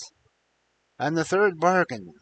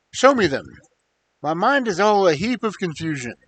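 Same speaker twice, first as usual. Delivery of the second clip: louder, urgent demand; 3 semitones higher, 4 dB louder than usual. Acted. Confused prince eagerly demanding to see his children, louder. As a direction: press her eagerly.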